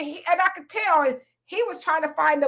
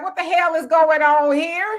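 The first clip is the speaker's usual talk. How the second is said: laughing disbelief; 3 semitones higher, 4 dB louder than usual. Retold or imitated. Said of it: "I would have been like".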